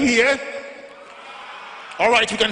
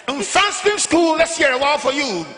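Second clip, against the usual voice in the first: hype call-out; 5 semitones higher than usual. Real, not acted. MC calling out to crowd.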